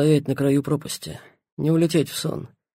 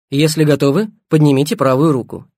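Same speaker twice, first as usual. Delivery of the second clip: louder instruction over headphones; 7 dB louder than usual. A narrator's reading. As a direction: repeat the request through the earpiece. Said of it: "голос Семёна".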